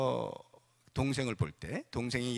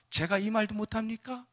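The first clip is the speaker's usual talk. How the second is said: higher-pitched, restrained protest; 7 semitones higher than usual. Acted. David protests to his brother that he may speak, restrained protest. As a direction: object after the outcry, without shouting. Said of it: "이렇게 하는 거예요".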